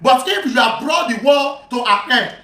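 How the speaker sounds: slow, measured reading of scripture; deliberate recitation of a religious text; reading aloud. Acted. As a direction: read the account out slowly, word by word. Reads the hadith again.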